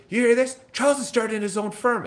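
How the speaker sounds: high, loud shouted announcement; retold yell. Uncle announcing the nephew's firm to family, loud shout. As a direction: broadcast it to the whole room. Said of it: "He yells at the top of his lungs".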